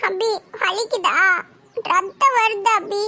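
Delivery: put-on slightly softened, upset child's concern; a touch of tears, anxious; tearful worry. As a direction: fret over his wound, close to crying. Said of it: "நீ அழாத".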